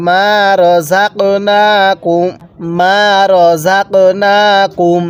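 long drawn-out chanted recitation, every vowel stretched; slow Quran recitation. Shown as a demonstration. Teacher models the verse for students, slow drawn chant. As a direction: intone it slowly, as the teacher's model reading. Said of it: "কিভাবে পড়ব?".

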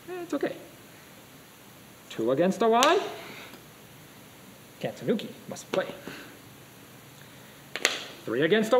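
imitating a Chinese Go teacher's accent; light Chinese accent, sing-song proverb. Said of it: "say this in his Chinese accent".

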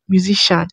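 musician pronounced "myu-zi-shan"; no k before the "shan" in musician; musician without k. Shown as a demonstration. Creator tries the other way, musician as "myu-zi-shan". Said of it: "Is it musician or musician?".

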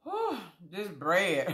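slow, laughing through the words. Real, not acted. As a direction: chuckle it out. Laughs while tasting.

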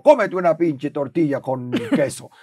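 slow put-on craving voice; lazy body voice. His body ordering cheesy tortilla, slow put-on voice. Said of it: "Eso me dice mi cuerpo".

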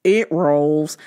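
"It rolls" said low and flat, like a shrugging guy; deadpan it like you don't care; mock flat excuse. Imitating the truck owner's lazy low "It rolls".

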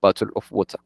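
"bottle of water" lightly British, T's softened; a hint of British "bottle of water"; British accent. Shown as a demonstration. Teacher recalls the British phrase for students. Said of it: "solo le sale la forma británica esa frase".

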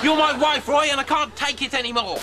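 high, loud, half-laughing lament; melodramatic outburst. Acted. Moss wailing at Roy like a despairing spouse. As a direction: wail it like a spurned lover.

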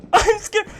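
scared. Real, not acted.

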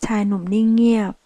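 ordinary delivery

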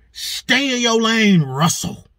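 slow mock scolding, dropping on the name; retold snapping. Imitating the woman who snapped at Russell, scolding. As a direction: draw out the order like a fed-up woman. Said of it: "this woman snapped".

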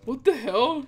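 high, incredulous questions; baffled surprise. Real, not acted. Invisible troll realising player can see him, astonished. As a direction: pitch jumps up in real disbelief.

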